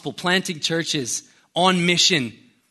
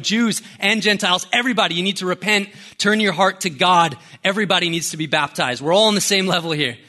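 mildly raised preacher's call, pressing on quickly; retold shouting preaching; 3 semitones higher than usual. John the Baptist calling crowds to repent, mock shouted preaching. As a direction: imitate a street preacher's shout, only half raised. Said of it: "He's shouting, preaching repentance of everyone".

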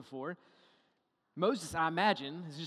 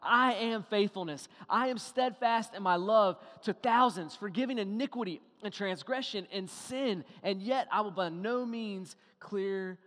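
proclaiming God's voice; 2 semitones higher, 5 dB louder than usual. Retold or imitated. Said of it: "He's saying".

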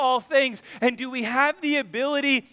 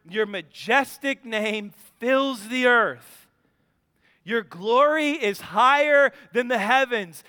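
scripture reading; 3 dB louder than usual. Acted. Reads Psalm eight.

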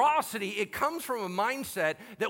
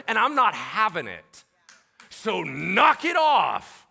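slow, louder rebuke; mock stern rebuke; 3 semitones higher, 8 dB louder, slower than usual. Jesus rebukes Peter before the disciples, slow stern rebuke. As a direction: drag each phrase out, stern.

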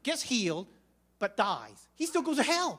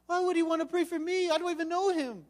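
higher, bewildered sick man; startled, higher-pitched patient; puzzled husband, raised voice; 8 semitones higher than usual. Retold or imitated. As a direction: ask it as if baffled anyone would pray for you.

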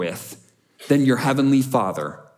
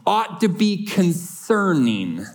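firm, higher-pitched emphatic warning; a preacher's firmer restatement, pitched up; 5 semitones higher than usual. Real, not acted. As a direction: press the point home with conviction. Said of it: "I'll say it maybe even a little bit firmer".

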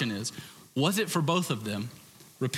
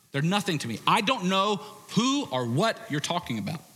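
contemptuous denial; 5 semitones higher than usual. Retold or imitated. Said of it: "of Peter going".

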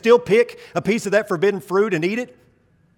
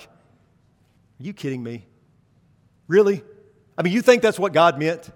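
mocking serpent. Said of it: "the serpent is downplaying God's words".

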